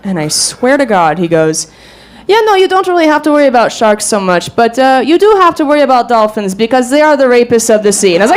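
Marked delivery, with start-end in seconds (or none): 2.3-8.1 mock European accent, matter-of-fact. Date explaining sharks and dolphins, in a mock European accent. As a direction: lightly imitate his accent. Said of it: "he had this really thick European accent".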